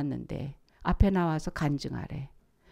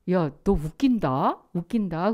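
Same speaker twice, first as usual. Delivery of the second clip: friends teasing; 2 semitones lower than usual. Retold or imitated. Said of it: "대학교 친구들이 그래요".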